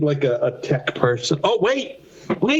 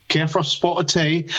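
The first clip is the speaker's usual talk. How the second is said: put-on English accent, slightly broguish. Shown as a demonstration. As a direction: warm up a mock English accent. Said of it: "to get to my English accent".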